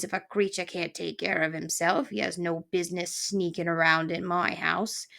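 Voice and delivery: lightly voiced old coot; cranky porcupine. Porcupine scolding the intruding mouse, mildly cranky.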